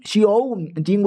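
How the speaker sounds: "शिओ जिंग" drawn out slowly; unsure Chinese pronunciation. Real, not acted. Narrator attempting a Chinese name, "शिओ जिंग" pronounced slowly and uncertainly. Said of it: "Chinese name कैसे pronounce करते हैं".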